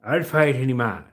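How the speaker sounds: hammed-up Irish brogue; boastful Irishman impression; Irish accent. Shown as a demonstration. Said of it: "That's a bit of Irish for you".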